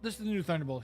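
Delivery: talking through hiccups; hiccuping mid-sentence. Real, not acted. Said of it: "Excuse me, I have the hiccups".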